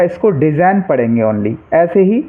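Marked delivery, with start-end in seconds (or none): 0.3-0.8 डिज़ाइन ending on n, no g before it; silent G. Shown as a demonstration. Teacher showing students how to read design, डिज़ाइन without any g. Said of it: "यहाँ पर जी silent रहेगा".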